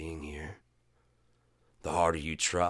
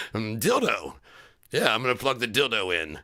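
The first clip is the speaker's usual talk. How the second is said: louder, cheerfully clueless; mock naive self; 5 semitones higher, 6 dB louder than usual. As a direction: repeat it proudly, no idea. Naively repeating the fake word.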